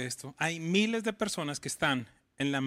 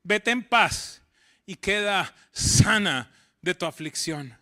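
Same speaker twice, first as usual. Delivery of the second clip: slow, louder solemn blessing; Jesus speaking; 7 dB louder, slower than usual. Acted. Jesus sends the healed woman away in peace, slow and solemn. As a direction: pronounce the healing gently but firmly, slowly. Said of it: "le dijo Jesús".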